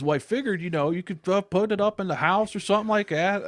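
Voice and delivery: high, loud slurred dad impression. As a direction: do his hillbilly dad again. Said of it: "And he goes".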